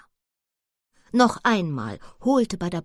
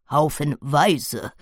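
slow, drawn-out correction; murmured; 2 semitones lower, 4 dB louder, much slower than usual. Acted. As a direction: slowly correct the word. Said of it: "murmelte Badabamba". (langsam gemurmelt)

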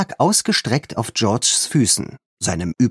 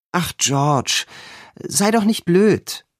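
high, slow, scoffing; dismissive friend; 8 semitones higher, slower than usual. A narrator's reading. Friend dismisses the girl's claim, high scoffing. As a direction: brush off her worry.

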